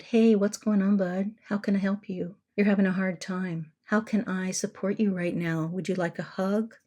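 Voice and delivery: put-on soft, gentle check-in with an upset child; soothing a child. Shown as a demonstration. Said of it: "I'm talking about the attitude of that".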